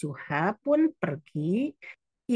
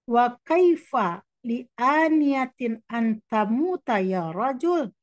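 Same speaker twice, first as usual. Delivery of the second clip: mildly angry; 5 semitones higher, 3 dB louder, slower than usual. Acted. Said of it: "wa huwa ghadibun".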